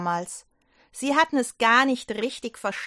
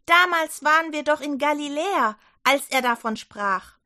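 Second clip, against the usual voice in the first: higher, louder eager report; excited telling; 4 semitones higher, 4 dB louder than usual. Acted. Johanna tells the doubting disciples, eager and louder. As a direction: pour out the news.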